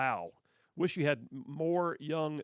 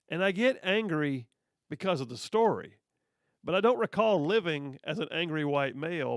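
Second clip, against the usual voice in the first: heated rant; 4 dB louder than usual. Real, not acted. Heated rant about anger.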